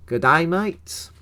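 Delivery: slow, badly faked Australian accent; a cheesy Australian greeting; put-on Australian accent, hammed up; terrible Australian accent. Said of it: "That's a terrible Australian accent".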